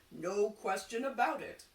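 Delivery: a hint of a solemn seer; lightly voiced prophet, grand and sure; fortune teller voice. Fortune teller flattering the carpenter, lightly voiced seer.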